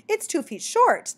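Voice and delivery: a little impatient. A narrator's reading. Mockingbird repeats the point to the baffled bat, a little impatient. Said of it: "said a little impatient".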